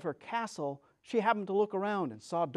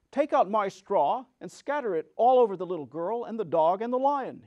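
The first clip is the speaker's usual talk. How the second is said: Scarecrow instructing; 4 dB louder than usual. Acted. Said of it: "he said to the Woodman".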